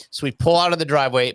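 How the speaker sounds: usual speaking voice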